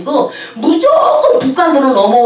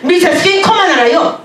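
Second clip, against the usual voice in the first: mock guide; 6 semitones higher than usual. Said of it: "이러는 거예요".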